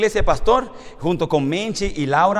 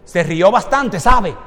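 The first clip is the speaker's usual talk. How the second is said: stern remark; 6 dB louder, slower than usual. Retold or imitated. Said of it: "me dice la señora".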